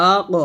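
আ ক with the ক bouncing off the tongue root; heavy আ ক with qalqalah bounce; echoed release. Shown as a demonstration. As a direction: release ক with a thick little rebound. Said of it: "কলকল করতে হবে".

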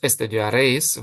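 estudiaréis with the stress on the final éis. Shown as a demonstration. Spanish teacher conjugates for learners, stressing the éis of estudiaréis. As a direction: land on the ending éis in estudiaréis. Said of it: "Eis, наголосом".

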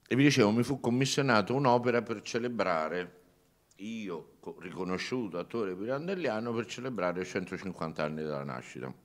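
talking around a candy in the mouth; sucking a hard candy. Real, not acted. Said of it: "È difficile parlare, però".

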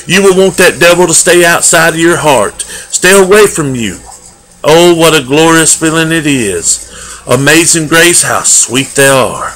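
earnest preaching. Real, not acted. Preacher urging the congregation not to deny Jesus, earnest preaching.

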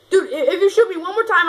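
fast, high, laughing plea; nervous laugh. Real, not acted. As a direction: plead while laughing.

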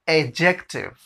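एडजेक्टिव slowly, opening on a long "ay"; slow demonstration. Shown as a demonstration. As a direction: draw out एडजेक्टिव by its syllables. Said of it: "अब fast में".

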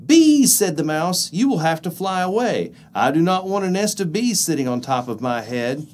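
high, loud cross mouse; annoyed mouse voice. Acted. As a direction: shoo them off crossly. Mouse scolds bees.

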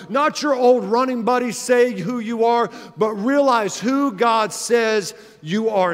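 rising to a full preaching shout, slowing at the end; preaching build. Real, not acted. Preacher urging the congregation, swelling to a shout.

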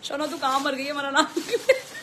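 reading the rude message through laughter; quoting a rude viewer while laughing; laughing quote. Retold or imitated. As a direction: giggle while quoting the chat. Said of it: "WhatsApp पे लोग message डाल रहे हैं".

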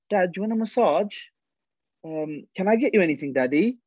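high, sugary coaxing voice; sweet-talking daughter. Retold or imitated. Daughter sweet-talking her dad for a favour, high and coaxing. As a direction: coax dad with a sweet offer.

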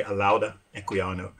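"Alauda Equiano" with an ow vowel in the middle; common pronunciation. Shown as a demonstration. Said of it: "most people say".

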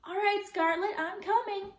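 high, affected play-acting voice; sophisticated voice. A narrator's reading. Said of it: "Ellen replied in a sophisticated voice".

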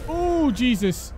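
slow, high startled gasp; drawn-out alarmed exclamation. Real, not acted. Startled by enemies.

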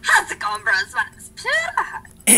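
PewDiePie impression. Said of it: "do a PewDiePie impression".

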